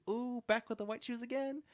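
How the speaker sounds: high, loud put-on hype voice; imitating a viral video. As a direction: mimic a friend hyping up shoes, high-pitched. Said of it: "on some of them he has".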